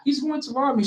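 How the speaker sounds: put-on scared nerdy kid voice; nerd boy voice. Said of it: "nerd boy voice".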